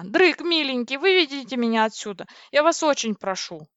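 coaxing, anxious entreaty; pleading. Acted. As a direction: plead to be taken away. Begging to be rescued.

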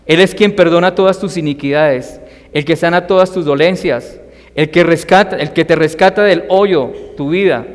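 solemn, declaiming psalm reading; scripture reading. Acted. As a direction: proclaim the psalm to the congregation. Reads Psalm 103 aloud.

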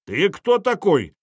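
put-on the old official challenging a stranger; old man's shout. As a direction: bark the question down from the wall. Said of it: "крикнул Тысяцкий".

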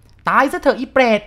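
put-on old man raging while whipping her; furious old man. A narrator's reading. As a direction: scream it as he lashes her.

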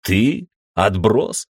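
feigned amazement, rising; mock surprise. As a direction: pretend to be shocked. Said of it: "притворно удивился я".

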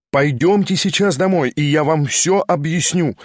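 exclaimed. Acted. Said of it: "вскричал я".

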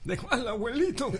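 put-on high, shaky old grandpa voice; very old man. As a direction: croak it like a frail grandpa. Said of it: "un saludo con la voz de abuelo".

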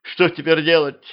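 put-on high, anxious girl's question; panicking. A narrator's reading. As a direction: ask in rising panic. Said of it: "запаниковала девчонка". (высоким испуганным голосом)

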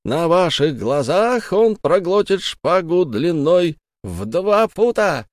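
high, slow fairground call; barker's cry. Acted. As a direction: draw the crowd in like a street barker. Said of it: "кричали во всю глотку зазывалы".

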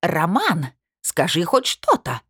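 shrieking. Acted. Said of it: "завизжала она".

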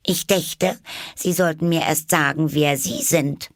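high, indignant little voice; very earnest Alice. A narrator's reading. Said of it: "sprach sehr ernst". (sehr ernste, hohe Alice-Stimme)

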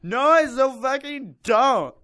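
put-on loud, high, slow valley-girl prep; reading the fanfic as a preppy girl. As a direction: sneer it like a snobby prep. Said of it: "I decided to say that in that voice to make her sound like a prep".

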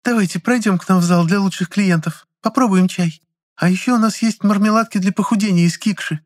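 high, sweet cooing invitation. A narrator's reading. Assistant cooing to calm the angry customer. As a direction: coo to lure her away. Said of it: "проворковала Лизонька".

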